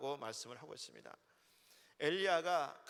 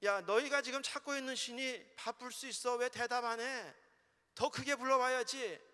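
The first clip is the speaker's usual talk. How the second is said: raised, goading voice as Elijah jeering; Elijah's mock challenge, pitched up; mocking taunt; 6 semitones higher than usual. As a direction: taunt them in a higher pitch. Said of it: "엘리야가 그들을 조롱하면서 말하였다".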